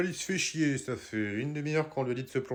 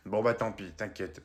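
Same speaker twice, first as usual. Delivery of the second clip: soft murmur; 7 semitones lower, 6 dB quieter than usual. Acted. Grandma letting it go.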